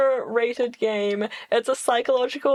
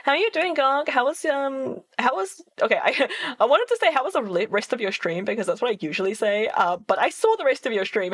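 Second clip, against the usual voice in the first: put-on Valley Girl voice; 4 semitones higher than usual. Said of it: "Valley Girl voice that I'm doing a very bad job of".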